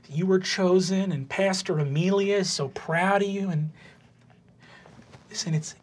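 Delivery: a touch of tearful tenderness, lightly voiced; misty-eyed mom. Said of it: "a little misty-eyed and she says".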